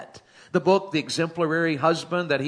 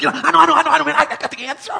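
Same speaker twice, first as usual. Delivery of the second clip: put-on much higher, much louder excited kid; eager junior; 11 semitones higher, 8 dB louder, faster than usual. Preacher imitating eager junior campers, high, loud and excited. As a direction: bounce like a kid dying to answer. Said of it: "You're like".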